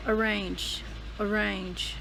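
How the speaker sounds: "arrange" with the R clearly sounded; R pronounced. Shown as a demonstration. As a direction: stress out "arrange", R not silent. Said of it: "It's not silent R".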